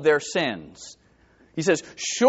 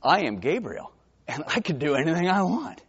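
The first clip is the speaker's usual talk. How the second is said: bold Gabriel; 3 semitones higher than usual. Retold or imitated. The angel answering the doubting priest, rising to grand. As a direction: claim all of heaven's authority. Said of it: "the angel says".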